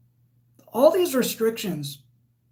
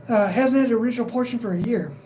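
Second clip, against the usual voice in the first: hiccups; faster than usual. Real, not acted. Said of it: "got the hiccups".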